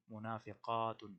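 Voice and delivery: منافقاتن said slowly, syllable by syllable, mu-na-fi-qa-tun; slow drilled plural. Shown as a demonstration. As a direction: spell out منافقاتن slowly for students to repeat. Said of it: "یہ آپ نے خود کرنا ہے". (منافقاتن کو آہستہ آہستہ، ایک ایک حرف واضح کر کے ادا کریں)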